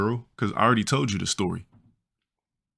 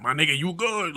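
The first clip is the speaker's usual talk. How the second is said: high homie impression; friend's voice; 8 semitones higher than usual. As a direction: check on him in a high voice. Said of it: "Yeah, that's how he talked".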